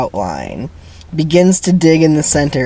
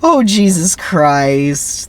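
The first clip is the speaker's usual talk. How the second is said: slow, weary groan of a line; exasperated; 4 semitones higher, much slower than usual. Real, not acted. Reader groaning at the script, slow and exasperated. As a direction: sigh it out, fed up.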